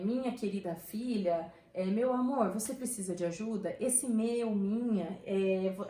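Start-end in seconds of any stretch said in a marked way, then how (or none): 0.1-3.8 a touch of affection, unhurried; affectionate example. Shown as a demonstration. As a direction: draw it out fondly, as an example. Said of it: "podem indicar um afeto".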